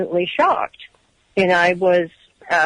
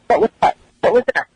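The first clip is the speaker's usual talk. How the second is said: higher, louder feigned-innocent question; mock puzzlement; 5 semitones higher, 5 dB louder, faster than usual. Examiner answering her about the hall, feigning puzzlement. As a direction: play dumb, pitched up sharply on the first ask.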